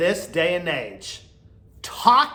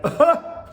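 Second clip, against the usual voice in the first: imitated laugh; 10 semitones higher, 3 dB louder than usual. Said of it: "laughing like".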